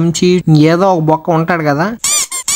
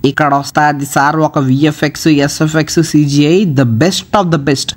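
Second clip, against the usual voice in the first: slow, drawn-out fake praise; slow mock grandeur; 4 semitones lower, slower than usual. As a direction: spell it out slowly like a proud ad.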